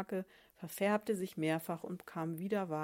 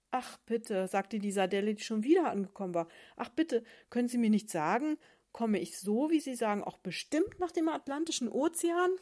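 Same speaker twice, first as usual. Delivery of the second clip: higher, louder eager sardine pleading; 4 semitones higher, 8 dB louder than usual. Acted. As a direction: beg sweetly and keenly, rising up.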